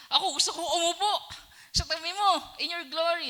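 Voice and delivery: high, fast, eager plea; eager disciple. Retold or imitated. Disciple begging Jesus for a seat, giddy and high.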